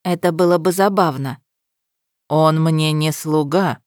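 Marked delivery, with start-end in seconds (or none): 2.3-3.8 slow, level, unbothered; dispassionate. Acted. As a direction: calmly state it without feeling. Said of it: "бесстрастно отозвался демон". (бесстрастно и медленно)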